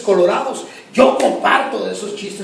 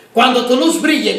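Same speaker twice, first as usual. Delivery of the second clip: rising preaching fervor; 5 semitones higher, 6 dB louder than usual. Real, not acted. Preacher repeats line, building up.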